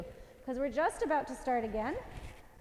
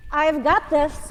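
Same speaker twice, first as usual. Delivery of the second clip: mantra; 8 dB louder, much slower than usual. Shown as a demonstration. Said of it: "is what we're gonna think".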